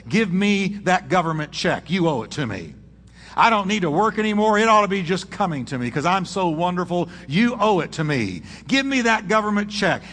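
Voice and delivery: a hint of a spoiled brat. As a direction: demand it like an entitled kid. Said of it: "this was the voice of a spoiled brat".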